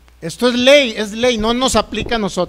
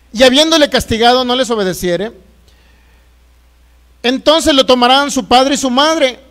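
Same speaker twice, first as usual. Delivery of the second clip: emphatic, measured reading from the pulpit; scripture reading. Acted. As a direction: read the verse out firmly to the congregation. Reads scripture aloud. (lectura bíblica firme y solemne)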